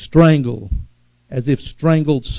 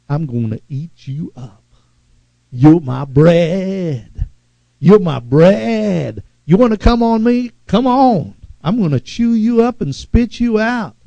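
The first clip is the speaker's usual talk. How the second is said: a preacher taunting the spirit of fear; 2 semitones higher than usual. Shown as a demonstration. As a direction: gloat over fear as if to eat it. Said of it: "talking like that".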